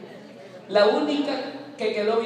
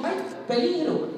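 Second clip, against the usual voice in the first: higher, squeaky little-mouse alarm; ratoncito asustado; 9 semitones higher than usual. Acted. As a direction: cry out like a scared mouse. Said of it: "Y dijo". (ratoncito asustado, voz más aguda)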